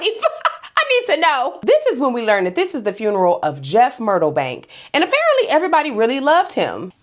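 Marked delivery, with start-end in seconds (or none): 0.0-1.6 slow, giggling plea; laughing. Real, not acted. Host asking viewers for their biggest funeral, slowly laughing. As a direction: beg through laughter.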